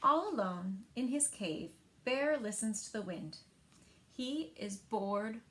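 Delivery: put-on lively read-aloud for young children; story narration. A narrator's reading. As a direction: tell it like story time at the library. Librarian reads picture book aloud.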